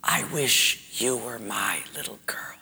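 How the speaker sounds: soft, hushed whisper. Acted. Teacher to crying pupil in hearing test, soft whisper. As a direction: whisper it gently across the room. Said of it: "she said in a whisper".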